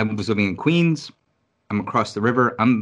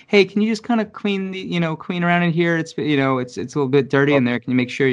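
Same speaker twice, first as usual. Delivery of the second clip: high, fast and breezy, faking casual; mock boss voice; 6 semitones higher, faster than usual. Bosses coaxing the cleaning lady into the exposed room, mock-breezy and high. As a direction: sweet-talk her into the dirty room, pitched way up.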